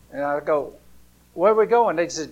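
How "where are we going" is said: higher, louder confused question; puzzled kid. Retold or imitated. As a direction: ask like a sleepy, puzzled child. Child asking where they're going.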